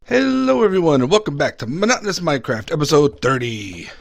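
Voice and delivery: bright, loud opening greeting; YouTube intro. Acted. Clip montage of episode intros.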